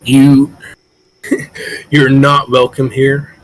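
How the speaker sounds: unwelcoming leader; hostile warning. Acted. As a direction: warn off intruders. Kroll warns the party.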